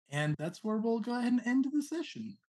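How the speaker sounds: ordinary delivery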